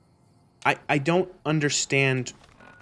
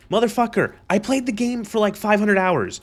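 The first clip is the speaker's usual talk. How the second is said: exasperated, higher-pitched protest; indignant rebuttal; 6 semitones higher than usual. Real, not acted. Gamer answers an accusing commenter, indignant. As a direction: hotly defend yourself, pitch riding high.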